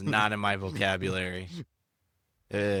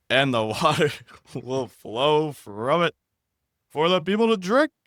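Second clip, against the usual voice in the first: voiced Lord; 6 semitones higher, 6 dB louder than usual. Reading Exodus, giving the Lord a put-on voice. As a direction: boom out the Lord's promise in a put-on voice. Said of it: "how I feel about those voices".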